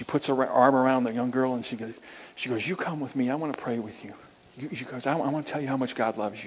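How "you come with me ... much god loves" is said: tender invitation. Retold or imitated. Pastor gently leads weeping girl.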